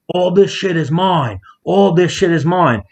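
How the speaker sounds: slow, high-pitched mock shout; retold ranting. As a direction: imitate a wild claim, drawn out and pitched high. Imitates the kid claiming the trunk's contents.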